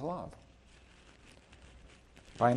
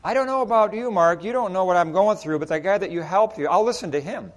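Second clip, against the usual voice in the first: higher and louder mock protest; lightly voiced skeptical man; defensive addict; 3 semitones higher, 5 dB louder, faster than usual. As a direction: push back on the helper. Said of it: "then you're like".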